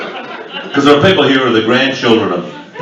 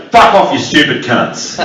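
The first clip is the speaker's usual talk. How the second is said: Aussie phrase demo. Shown as a demonstration. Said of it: "just say".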